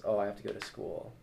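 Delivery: reluctant. Acted. Student dreading the school day, mildly reluctant. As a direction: say it as a chore. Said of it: "not think of it as".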